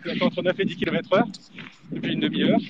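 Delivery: panting while running; talking between breaths on the run. Real, not acted. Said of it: "ça s'entend".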